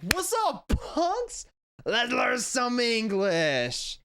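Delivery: hammed-up too-cool teacher greeting the class; cocky cool teacher. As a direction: strut in with shades on and play it cool. Cool third-year teacher with shades on.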